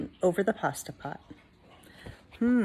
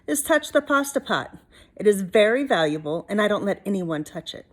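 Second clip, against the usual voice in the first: a hint of a stern old witch; stern warning; 4 dB louder than usual. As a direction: warn him off the pot. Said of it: "said Stregonona".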